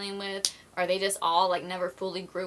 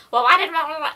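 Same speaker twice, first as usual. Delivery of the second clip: mock whiny question; 8 semitones higher, 12 dB louder than usual. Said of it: "And they're like".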